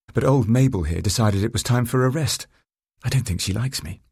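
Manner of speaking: lightly voiced woman rider. Narrator voices Sophie in dialogue.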